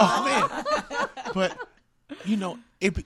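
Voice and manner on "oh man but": touched. Real, not acted. Overcome after getting emotional.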